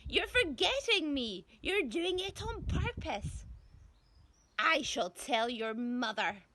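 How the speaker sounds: put-on high, loud, nagging old woman; petulant threatening grandma voice; whining granny. A narrator's reading. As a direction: complain like a spiteful grandma.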